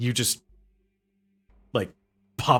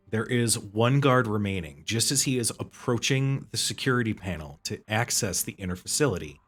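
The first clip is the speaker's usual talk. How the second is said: measured, deliberate narration; game master scene-setting. Acted. Game master introduces the last guard at the panel, deliberate narration.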